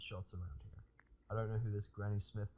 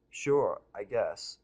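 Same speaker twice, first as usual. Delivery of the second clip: stammering; 8 dB louder, much slower than usual. Acted. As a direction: caught off guard, stammering it out. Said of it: "I stammer a bit".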